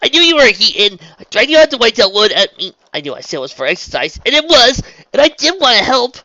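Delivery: high, loud distraught confession; self-blame pouring out at a near shout; choking back tears. A narrator's reading. Raindrops blames herself to Trixie, fighting back tears. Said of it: "she said, choking back on tears".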